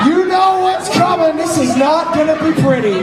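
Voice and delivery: wrestling commentator. Acted. Play-by-play of wrestling match.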